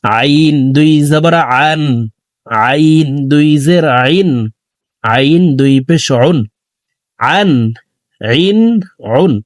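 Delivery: আইন, আন, উন voiced from the middle of the throat; careful teaching demo of আইন from mid-throat; throat Ain. Shown as a demonstration. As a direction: squeeze each আইন from mid-throat, not as a hamza. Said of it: "আইন হরফকে হলকের মধ্যখান থেকে উচ্চারণ করতে হবে".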